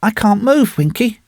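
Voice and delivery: high-pitched, hurting woman's voice; pained groan. A narrator's reading. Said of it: "said Miss Allardyce with a groan".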